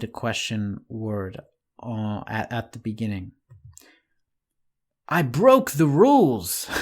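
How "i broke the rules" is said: I broke the rules! said louder, punched on broke; forceful exclamation, broke stressed; exclaimed. Shown as a demonstration. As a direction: blurt it out with force. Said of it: "Exclamation mark".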